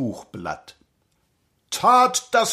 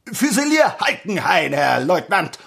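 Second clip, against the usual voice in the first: shouted report. Acted. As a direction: shout the name like a recruit. Recruit reports loudly.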